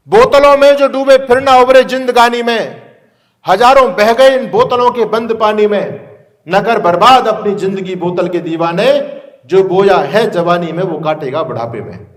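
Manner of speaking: measured, emphatic verse delivery; verse recitation. Acted. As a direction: declaim the couplets as a warning.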